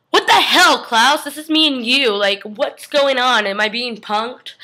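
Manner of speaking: incredulous outburst. Acted. Stefan confused at old photo.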